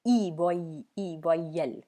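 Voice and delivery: teacher sounding out वॉई and वॉयल; French word demo. Shown as a demonstration. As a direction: break वॉयल into its sounds, slowly. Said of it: "ये word था वॉयल".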